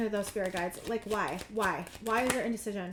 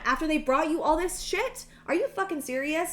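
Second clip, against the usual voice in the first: higher-pitched, real indignation; getting mad; 4 semitones higher than usual. Real, not acted. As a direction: call out their nerve in disbelief. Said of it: "I'm getting so mad".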